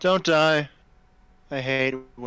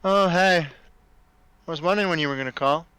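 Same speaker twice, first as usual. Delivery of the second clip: derpy dragon voice; 3 semitones higher than usual. Acted. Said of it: "talk in derpy dragon voice".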